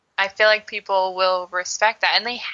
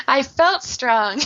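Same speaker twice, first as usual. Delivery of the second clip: laughing; 3 semitones higher, slower than usual. Real, not acted. Laughs after tapping exercise.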